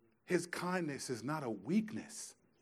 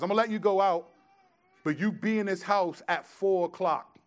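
mom's condition; 5 semitones higher, 7 dB louder than usual. Retold or imitated. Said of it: "almost every Sunday".

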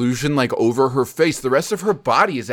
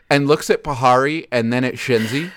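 normal talking voice

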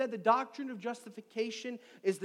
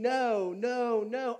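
louder, firm repeated no; emphatic no; 3 semitones higher, 4 dB louder, much slower than usual. Retold or imitated. Preacher voicing Paul, emphatic repeated no. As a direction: insist like shutting a door. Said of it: "he is emphatic".

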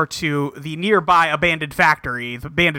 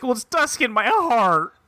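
mock crying; 6 semitones higher than usual. Gen's mopey quote, crying voice.

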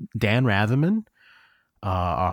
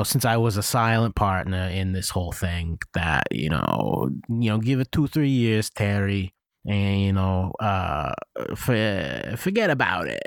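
put-on New Jersey accent. Silent partner reassuring Terry, light New Jersey accent. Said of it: "doing, like, a weird New Jersey thing".

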